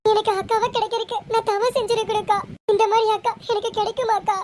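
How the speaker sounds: a mild, understated tearful apology to her sister; tearful pleading. Acted. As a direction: beg forgiveness with a touch of tears. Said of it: "Deepika, அழுகாதடி". (அக்காவிடம் மன்னிப்பு கேட்கும் லேசான அழுகுரல்)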